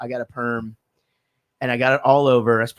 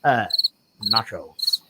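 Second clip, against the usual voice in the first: Beavis voice; 7 semitones lower, slower than usual. Shown as a demonstration. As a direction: lower nasal cartoon teen. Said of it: "I can't do Be-, uh, Beavis".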